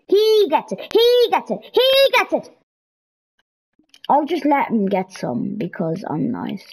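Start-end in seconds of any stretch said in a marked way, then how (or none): 0.1-2.6 climbing higher each repeat; high indignant repeats; 1 rising outrage. Real, not acted. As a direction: build up the indignation. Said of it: "As if, like".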